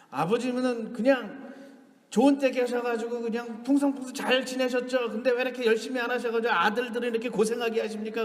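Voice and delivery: imitated son's griping; retold grumbling. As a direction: reel off grievances at your father. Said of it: "그러면서 막 불평을 늘어놨어요".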